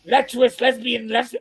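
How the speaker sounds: mock-appalled repeat of the phrase; upset mother imitation. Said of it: "Vivian was very upset".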